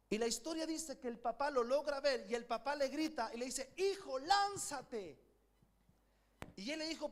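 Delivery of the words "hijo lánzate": father calling out. Retold or imitated. Father calls to son from fire.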